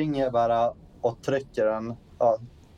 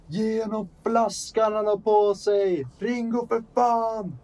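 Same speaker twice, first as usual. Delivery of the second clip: high, drawn-out battlefield holler; shouting while running; 9 semitones higher, 3 dB louder, slower than usual. Acted. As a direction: yell an order slowly across a distance, exasperated. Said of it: "skriker jag i farten så här".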